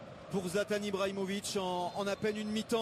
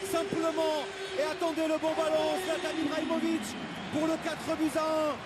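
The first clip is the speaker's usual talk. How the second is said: excited goal call. Real, not acted.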